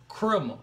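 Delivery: "Criminal" slurred to "crimmo"; imitated Florida "Criminal", rounded off at the end; Florida pronunciation. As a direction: mimic "Criminal" with a swallowed last syllable. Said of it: "how do you spell that?".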